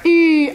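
a clear, loud "I" vowel sound; demo vowel I. Shown as a demonstration. Teacher showing the class the vowel, loud and clear. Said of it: "Et vous prononcez I".

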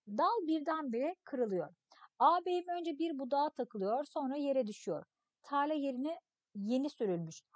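put-on expressive read-aloud of a children's story. Teacher reading a story text to pupils, expressive narration. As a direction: read the tale to the class, acting the voices.

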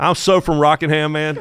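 hammed-up Rockingham accent; mock your own thick Southern speech; exaggerated small-town Southern accent; younger self's Southern accent. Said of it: "I sounded like that".

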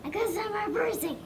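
shy little whisper. Real, not acted. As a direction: breathe the answer unvoiced. Child answers in whisper.

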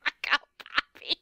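fast, loud, laughing shut up; laughing retort. Real, not acted. Friend laughing at a joke about Dragon Balls. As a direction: blurt it out through laughter.

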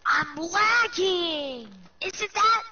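slow, drawn-out fake complaint; hyped gamer bro. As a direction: hype up pretend lag, stretched slow. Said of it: "I'm just kidding".

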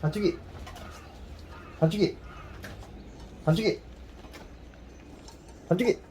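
high sing-song call to a dog; squeaky praising a dog. Real, not acted. Calling the dog by name.

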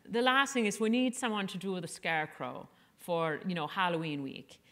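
a rough imitation of an Irish nurse's accent; bad Irish accent. Veteran mom addresses the newbie moms in a bad Irish accent. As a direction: put on a bad Irish lilt. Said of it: "that's a terrible accent".

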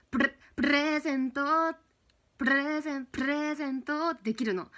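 プレゼント with a trilled r; rolled r. Shown as a demonstration. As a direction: roll the r in プレゼント.

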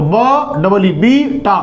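तो ब डबल ई बी टा spelled out slowly, piece by piece; slow spelling out. Shown as a demonstration. Teacher spelling out बीट slowly for students. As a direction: build the word slowly sound by sound. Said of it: "तो क्या हो गया हमारा ये?".

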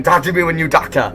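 mock Asian-accented father; Asian dad. Dad brushing off his fifteen-year-old, Asian accent. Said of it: "at least your dad is coming into your room".

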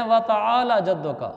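व तआला जद्दुका with the final ला of तआला cut short; wrong pronunciation. Retold or imitated. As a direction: say व तआला जद्दुका quickly, without drawing out ला. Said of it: "यहाँ भी कई लोग गलती करते हैं". (व तआला जद्दुका, ला को खींचे बिना)

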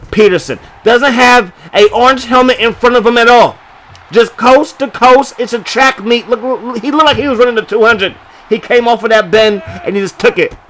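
high, loud play-by-play burst; rising hype as he breaks free; excited call. Real, not acted. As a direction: call the long run like it's breaking live. Big run, calling it live.

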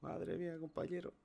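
stunned disbelief; shocked. Real, not acted. Reacción tras el susto. (asombrado y agitado)

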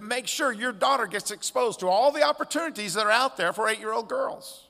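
lightly mimicked nagging insistence; insistent. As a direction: imitate well-meaning friends pressing their advice. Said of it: "The insistence of their friends".

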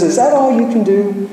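high-pitched parrot squawking out a taunt. Retold or imitated. Parrot heckles the plumber at work, high parrot voice. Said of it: "the parrot says".

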